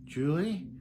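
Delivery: hopeful high rise on her name; nervous rising voice. Retold or imitated. Caller checking it is Julie, nervously high. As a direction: say her name with an anxious lift. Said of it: "you're like".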